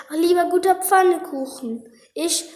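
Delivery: put-on high, fading hungry child; weak little child. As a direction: fade out like a starving child. Smallest child, too weak.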